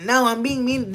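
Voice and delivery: loud mock troll whine. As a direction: ham up the mean commenter. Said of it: "They be like".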